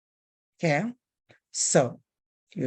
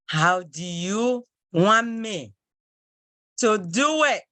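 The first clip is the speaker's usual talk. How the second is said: slow emphatic repeat; 3 semitones higher, slower than usual. Shown as a demonstration. Teacher to class, slow emphatic repeat. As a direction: drag it out and lift the end. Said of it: "slowed repeat".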